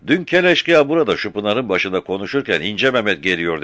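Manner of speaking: put-on young boy answering fast; shepherd boy. Frightened shepherd boy answering the captain, high child voice.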